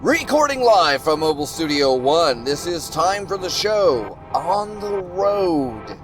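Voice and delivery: slow announcer show opening; show host voice. Acted. Hosting show intro.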